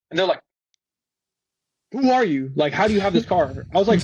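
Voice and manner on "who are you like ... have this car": mock suspicious questioning, pitched up at first; suspicious challenge. Garage staff questioning the unknown new valet, suspicious challenge. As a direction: imitate someone challenging a stranger.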